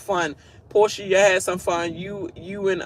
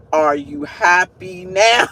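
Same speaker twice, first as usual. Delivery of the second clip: mock pleading; 5 dB louder, slower than usual. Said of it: "it remind me of the Martin show".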